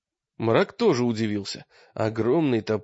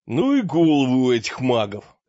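rasping in pain; hoarse and pained; 5 dB louder than usual. A narrator's reading. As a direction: croak it out, hurting. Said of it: "прохрипел он с мукой".

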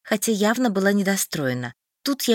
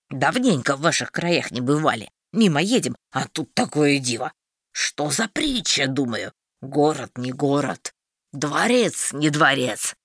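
a hint of a sly traveller, lower; slightly lower, feigning innocence; lightly voiced traveller; 6 semitones lower than usual. Marston voiced lower, playing innocent.

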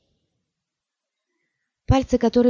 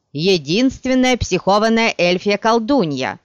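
mob shout; 2 semitones higher, 5 dB louder than usual. Acted.

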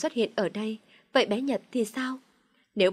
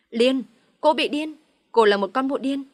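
fleeing yell; 4 semitones higher, 5 dB louder than usual. A narrator's reading. Man fleeing his furious girlfriend, yelling back at her. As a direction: yell it back while running away. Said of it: "Vừa chạy, hắn vừa hét".

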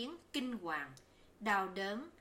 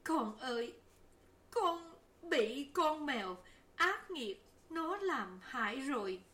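put-on higher, tearful lament over the child; grieving mother crying over her sick baby; mock weeping; 5 semitones higher than usual. A narrator's reading. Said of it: "Bình Nhi khóc mà bảo".

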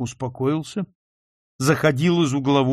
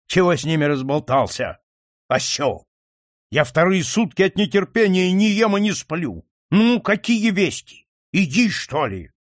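angry scolding; 4 semitones higher, 3 dB louder than usual. Acted. Angry father scolds son.

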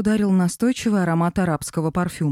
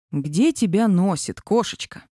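snorting. Acted. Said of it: "фыркнул Аркаша".

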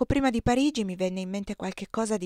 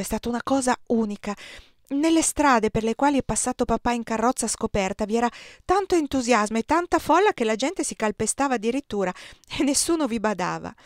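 lightly voiced eager young son, a bit louder; boy's letter; 6 dB louder than usual. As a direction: read it like a boy's excited letter home. Reads son's letter aloud.

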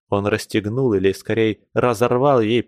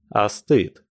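sharp. Acted. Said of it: "сказал он резко".

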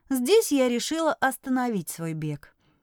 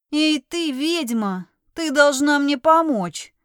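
brash, slow and loud demand; a girl in boy's clothes barks at the witch; cheeky; 3 semitones higher, 4 dB louder, slower than usual. Acted. To the heroine, the disguised girl demands help brashly. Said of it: "наглый и слишком тонкий для мужчины голос".

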